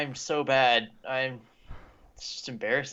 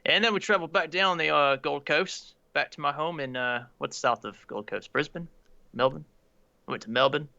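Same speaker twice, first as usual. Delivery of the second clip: badly faked Aussie storytelling; put-on Australian accent, a bit unsure; amateur Australian accent; attempted Australian accent. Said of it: "natural Aussie accent already".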